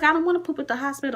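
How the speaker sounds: high, rushed mock protest; re-enacted high-pitched fretting; retold whining protest. Acting her panicked protest to husband.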